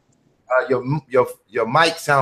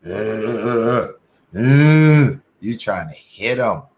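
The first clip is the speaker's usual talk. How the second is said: a loud drawn-out ooh, then teasing; hammed-up eager reaction to the email; playful mock surprise, then a sly question; mock excited; 5 dB louder, slower than usual. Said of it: "I was like".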